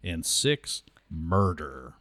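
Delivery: counting out each step loud; loud, clear voice. Acted. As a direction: call out each crime clearly. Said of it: "in a loud, clear voice".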